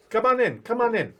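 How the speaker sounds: high welcoming goblin voice. Acted. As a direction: wave them in, goblin style. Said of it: "And he says".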